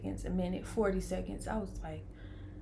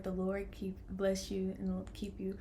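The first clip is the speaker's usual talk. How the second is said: slow hushed whisper of the verse; whispered blessing; 7 dB quieter, slower than usual. Real, not acted. Mother reads the verse on the wall in a whisper. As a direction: read it softly in awe.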